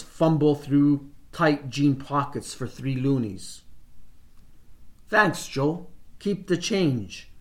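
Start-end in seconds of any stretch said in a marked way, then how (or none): 5.1-7.3 rough, just-woke-up voice; hoarse morning voice. Acted. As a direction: croak it out like first thing in the morning. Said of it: "I say in my hoarse morning voice".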